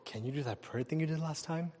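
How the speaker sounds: softly repeated, at near-normal pitch; imitated hushed request. Atheist coworker repeating his prayer request when asked, hushed. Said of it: "I could barely hear it".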